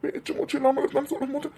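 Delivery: tearful, upset recounting; weepy and distressed; crying. Acted. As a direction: recount it to mum through tears. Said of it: "ரெண்டு பேரும் அழாதீங்க".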